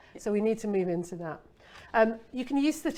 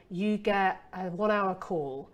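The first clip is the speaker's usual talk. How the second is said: slow, dull reading of a feature; bored feature list; 3 semitones lower, slower than usual. Shown as a demonstration. Copywriter showing a dull feature, slow and bored. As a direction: drone it like a boring spec sheet. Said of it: "those are the boring, f-, literal features".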